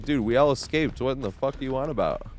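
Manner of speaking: half-acted disbelief at the teammate; exasperated retort. Answering the whining survivor, exasperated and incredulous. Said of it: "I was like".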